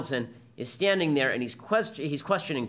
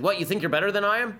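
retold angry retort; 6 semitones higher, 3 dB louder, faster than usual. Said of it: "he got very angry at me".

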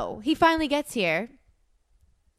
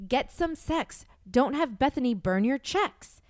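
slow, deliberate read-aloud; serious reading; 3 semitones higher, slower than usual. Acted. Reading his notes to the listeners, serious reading. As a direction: read the line out as earnest advice. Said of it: "I made it serious".

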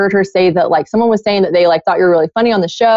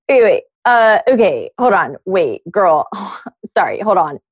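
retold stammer, restarting between fillers; flustered stuttering. Boss caught off guard by the question, mock stuttering. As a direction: imitate halting, stumbling stalling.

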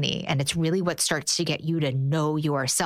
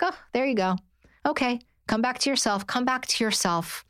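gentle; 6 semitones higher than usual. Retold or imitated. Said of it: "But in the most gentle, loving way".

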